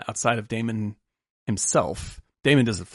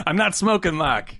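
higher Boston voice, mocking; Boston accent; 6 semitones higher than usual. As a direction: imitate a Boston local brushing off Mark. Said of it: "does the Dunkin' Donuts".

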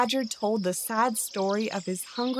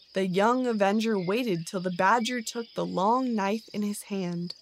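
usual speaking voice

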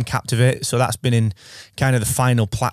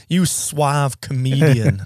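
slow suave voice; 3 semitones higher, much slower than usual. Retold or imitated. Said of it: "And you're like".

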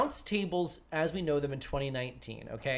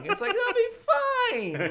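mock dismissive; 6 dB louder, slower than usual. Mocking the bookers' attitude.

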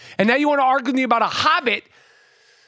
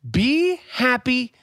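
slow, drawling grunge singer voice; fake grunge singer; much slower than usual. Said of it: "with the fake Kurt Cobain".

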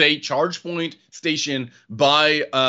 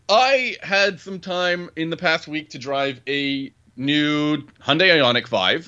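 slow, even robot voice; slower than usual. Real, not acted. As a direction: read it out like a robot. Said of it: "should I not talk like a robot".

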